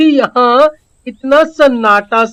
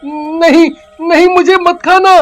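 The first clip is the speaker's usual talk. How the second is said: scared begging, voice raised; frightened pleading; 2 semitones higher than usual. Acted. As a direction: plead fearfully not to be eaten. Boy begs witch not eat. (डरकर गिड़गिड़ाता लड़का)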